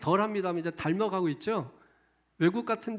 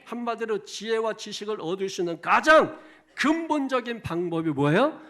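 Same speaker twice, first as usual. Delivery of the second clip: normal talking voice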